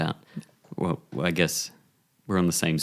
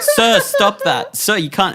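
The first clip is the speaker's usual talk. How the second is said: high, loud, slow warning; stern paramedic; 14 semitones higher, 7 dB louder, slower than usual. Acted. Paramedic stopping him sucking the bullet, loud and high. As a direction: order him to stop. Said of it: "they're like".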